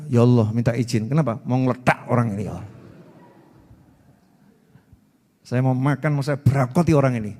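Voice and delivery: sedikit pelan, menahan kesal; malaikat geram. Retold or imitated. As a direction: malaikat geregetan minta izin. Malaikat kesal minta izin. (malaikat yang geram)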